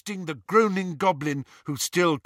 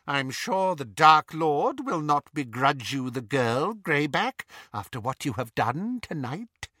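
silky cruel witch voice; Bellatrix voice. Acted. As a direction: toy with them. Bellatrix addressing sister and Greyback.

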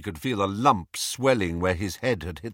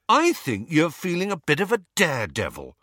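quick, high, goading accusation; rage; 6 semitones higher, faster than usual. A narrator's reading. Harry interrupting Lupin, angrily goading. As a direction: cut in fast and goad him. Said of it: "did not know where his rage was coming from".

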